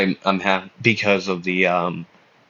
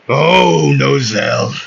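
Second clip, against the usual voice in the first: high, drawn-out greeting in a put-on voice; a missed attempt at the character's voice; off-target character voice; 4 semitones higher, 3 dB louder, slower than usual. Asta calling out to Nozel, high off-target character voice. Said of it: "that's not his voice".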